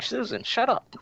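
a high, mocking snap of "Susan, shut up"; mock movie character. Podcaster quoting Simon telling Susan off, high and mocking. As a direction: toss off the line in a high put-on voice. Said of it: "he's like".

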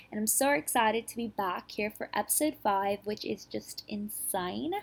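failed attempt at an Australian accent. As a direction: try an Aussie accent and miss. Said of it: "That was supposed to be an Australian accent".

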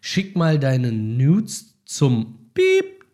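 spoken bleep in place of a word. Shown as a demonstration. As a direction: say Piep like a censor beep. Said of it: "mach immer Piep". (gesprochenes Piep statt Schimpfwort)

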